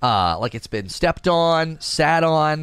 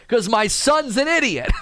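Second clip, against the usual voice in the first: higher voice breaking into laughter; amused exasperation; 8 semitones higher than usual. Retold or imitated. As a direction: imitate an exasperated dad, laughing through it. Retold confession, teller cracking up.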